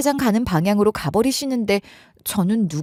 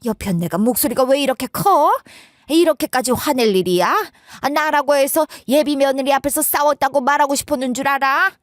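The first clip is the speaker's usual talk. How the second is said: stammered start, then indignant scolding; acted agitated hushing and arguing back; flustered retort; 4 semitones higher than usual. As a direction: protest in a fluster, pitch pushed up. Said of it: "당황스러워하면서 이러시더라고요".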